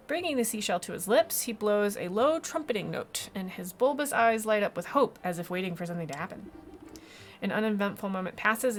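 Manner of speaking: animated storybook reading; story narration. Acted. Reads game narration aloud.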